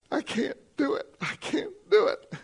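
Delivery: put-on high, thin child's wail; whining child. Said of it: "and they're crying".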